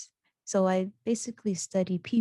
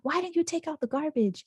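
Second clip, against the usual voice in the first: higher-pitched mock telling-off; retold scolding; 8 semitones higher than usual. Sister at the door over the garbage, mock scolding. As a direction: imitate a sister nagging about a chore. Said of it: "to yell at me actually".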